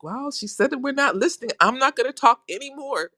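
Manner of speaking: high, playful pouting through laughs; mock sulk, laughing. The friend playfully sulking, laughing through it. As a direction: pout it in jest.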